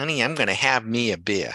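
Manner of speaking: put-on Boston accent. Recalling a woman from a beer commercial, quoting her line in a fake Boston accent. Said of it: "with her bo- fake Boston accent".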